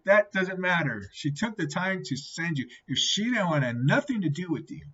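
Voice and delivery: acting out a persuasive friend; insistent rebuttal. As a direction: brush off the objection emphatically. Friend brushes off the objection.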